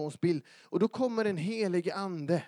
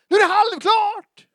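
huge high shout, far above speaking level; crying out; 14 semitones higher, 15 dB louder than usual. Acted. Preacher mimicking a wrong cry from the cross, crying out. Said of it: "ropar ut".

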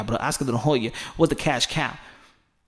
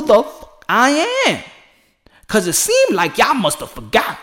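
building to a fired-up call; 2 semitones higher than usual. Retold or imitated. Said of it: "and I'm like".

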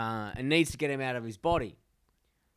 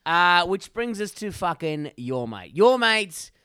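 hyped announcement; 2 semitones higher, 7 dB louder than usual. Real, not acted. Announcing the mate of the week.

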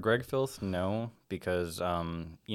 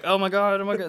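high panicked mutter; frightened bystander; scared gasping; 12 semitones higher, 7 dB louder, faster than usual. Retold or imitated. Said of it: "they're just like".

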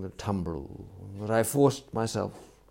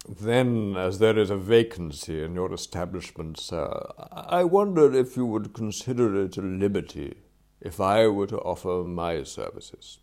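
lightly voiced butler, formal and carefully phrased; deferential valet; 5 dB louder than usual. Valet offers his services to former employer, deferential and formal. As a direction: make a delicate, courteous offer. Voices Jeeves applying for the post.

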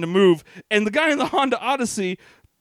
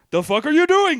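mock angry yell; 6 semitones higher, 4 dB louder than usual.

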